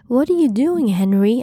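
high-pitched, alarmed question; urgent, startled cry; alarmed shout. A narrator's reading. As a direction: demand an answer in rising alarm. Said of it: "I shouted with alarm".

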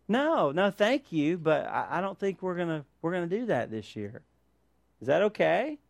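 soft, courteous decline; polite refusal. Acted. Declining the extended family's name exchange, polite refusal. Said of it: "it's okay to politely bow out and say".

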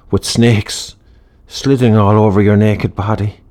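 rising rapture. Acted. Heavy metal fantasy raving.

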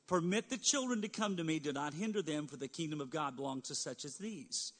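measured bible reading voice; scripture reading. Acted. Pastor reading Jesus' words to the congregation, solemn. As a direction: read the verses with gravity.

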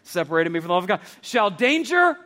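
rally the crowd for the shouted no; call and response. Real, not acted. Preacher leading the campus in shouted answers. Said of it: "I want you to shout the answer".

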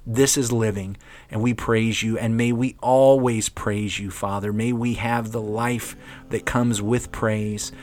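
earnest spoken prayer. Acted. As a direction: pray it out earnestly. Leads a closing prayer.

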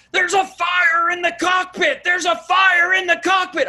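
high, loud yell of a panicking flight attendant; retold panicked yell. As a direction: shout it like the cabin's on fire. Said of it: "she yells".

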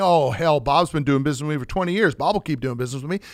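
lightly acted complacent salesperson, rattled off fast; breezily overconfident. Salesperson dismissing any risk of losing Bob's business, breezily overconfident. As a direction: brush off the worry in a quick mock boast.

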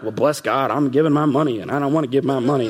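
mock-grumpy, fast complaining; grudging curmudgeon. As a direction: play the grudging giver who resents every cent. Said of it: "Don't be a curmudgeon".

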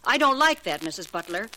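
angry warning. Acted. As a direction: put your foot down hard. Maid confronts employer over pay.

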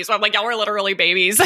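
quick words through a real laugh; amused fast aside, laughing. Real, not acted. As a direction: tease them while laughing. Host teasing about marrying young.

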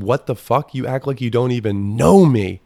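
hammed-up trashy rant; mock unhinged boast. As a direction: bellow it like a proud lunatic. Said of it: "I said".

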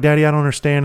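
confused daughter. Retold or imitated. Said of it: "They're like".

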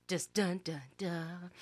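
fading suspense sting; dramatic sting. Acted. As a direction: hum a mock suspense sting. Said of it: "I always wanted to do that".

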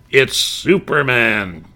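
slow, drawn-out proclamation; triumphant reveal. Retold or imitated. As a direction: land the big reveal slowly. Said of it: "the third voice came in with".

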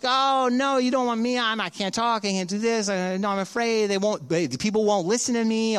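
backing away from the call in a nervous rush; fearful excuses. Retold or imitated. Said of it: "He responds with fear".

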